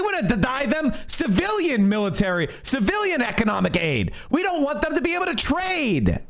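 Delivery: worked-up rant, voice climbing; fired up. Real, not acted. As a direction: let the outrage push the pitch up. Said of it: "sorry to get so fired up".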